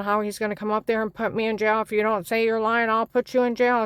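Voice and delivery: a hint of an angry agent yelling; retold angry yelling. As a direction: push up into his shouted threat. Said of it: "he starts screaming".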